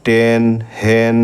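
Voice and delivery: টেন and হেন said slowly with a clear এ; slow vowel demo. Shown as a demonstration. Teacher showing the এ sound, slow clear demo. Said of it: "ইয়ের উচ্চারণ এর মতো হচ্ছে".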